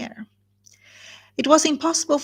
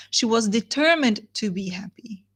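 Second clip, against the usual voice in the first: whispered, stressing "determined". Shown as a demonstration. Teacher whispering the key phrase to students. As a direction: breathe it as a secret point. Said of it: "You see the difference?".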